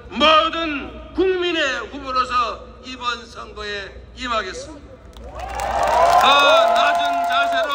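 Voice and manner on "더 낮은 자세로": slow and emphatic. Real, not acted. Solemn vow in speech.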